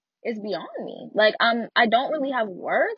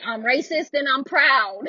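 mock proud declaration; 4 semitones higher, 5 dB louder, slower than usual. Mimics openly proud racists.

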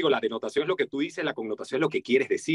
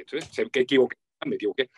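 mock Spanish accent; 3 semitones lower, faster than usual. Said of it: "O lo escuchan muy españoleto".

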